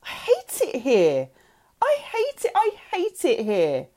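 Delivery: explode, pitch leaping up; shrieked outburst. A narrator's reading. Girl raging at her new family, shrieking. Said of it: "I shrieked".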